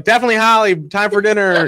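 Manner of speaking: high calling mom voice. Retold or imitated. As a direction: call her in like a mom. Host voicing mom calling her.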